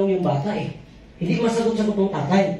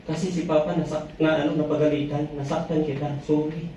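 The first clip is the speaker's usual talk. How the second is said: soft apology; 3 semitones lower, 4 dB quieter than usual. Acted. Father apologising to hurt child.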